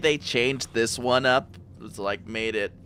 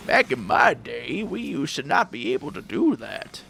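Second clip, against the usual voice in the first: put-on old man voice. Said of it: "switching between two different voices, Old Man".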